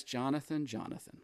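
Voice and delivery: imitating a parent's soft endearment, dropping away. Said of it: "it's a statement of endearment".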